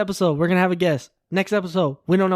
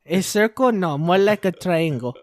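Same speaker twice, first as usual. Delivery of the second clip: mock Mexican accent. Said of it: "I did a Mexican accent".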